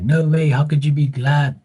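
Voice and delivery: loud, high incredulous outburst; mock disbelief. People challenging him for being glad, mock incredulous. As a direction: imitate an appalled critic. Acts out shocked critics.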